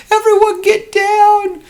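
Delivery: very high, slow, loud shouted order; kid captain command. Acted. Liam ordering his crew to duck paper wads, high shouted command. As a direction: yell it like a little captain under fire. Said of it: "He's like".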